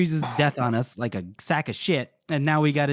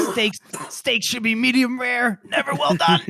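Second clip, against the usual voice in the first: mock whispered advice; 7 semitones higher than usual. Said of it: "He's probably like".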